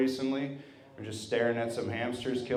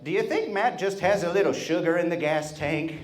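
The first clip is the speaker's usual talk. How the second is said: raised, higher-pitched imitation of a grandmother; loud asking; 5 semitones higher than usual. Grandmother asking his dad at her birthday, mock-loud. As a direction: ask it a bit too loudly, mildly mocking. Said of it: "I overheard her loudly ask my dad".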